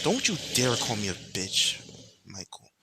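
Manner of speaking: scowling warning, loud then dropping on the name; acted indignant scolding, falling off at the end. The queen warning Michael after his insult, scowling. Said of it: "with a scowl".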